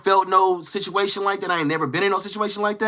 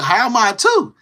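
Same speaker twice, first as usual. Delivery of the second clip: imitating incredulous protest; 5 semitones higher, 3 dB louder than usual. Acts out his indignant question.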